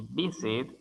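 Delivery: "visit" with the weight on VIS; stress on first syllable. Shown as a demonstration. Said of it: "énfasis de sonido en la primera sílaba".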